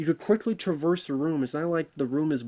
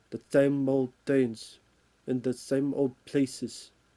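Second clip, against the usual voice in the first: put-on Russian accent. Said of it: "I am talking in a Russian accent".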